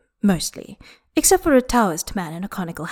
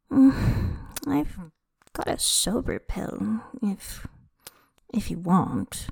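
shy quiet offer; 7 dB quieter, slower than usual. A narrator's reading. Shy offer of sober pill.

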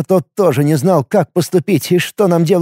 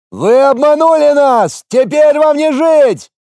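high, slow, loud angry shout; 10 semitones higher, 4 dB louder, slower than usual. A narrator's reading. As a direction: yell the threat from the wall. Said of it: "кричали со стены".

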